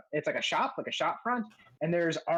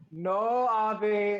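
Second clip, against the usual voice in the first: sheepish smith; 5 semitones higher, 3 dB louder than usual. Acted. Smith sheepishly answers scolding partner.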